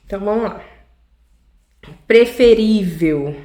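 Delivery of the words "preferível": slow preferível, stress on ví; syllable stress demo. Shown as a demonstration. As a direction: draw out preferível to show the strong syllable. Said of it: "é uma paroxítona". (preferível dito devagar, com ênfase em ví)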